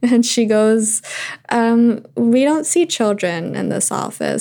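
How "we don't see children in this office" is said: curt clinic receptionist voice; lightly voiced stern receptionist.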